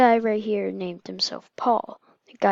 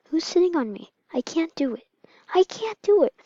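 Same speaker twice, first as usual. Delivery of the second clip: put-on high-pitched distressed baby voice; acted helpless little wail; mock crying; 7 semitones higher, 4 dB louder than usual. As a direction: protest in a high, pretend-crying voice. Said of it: "She's crying".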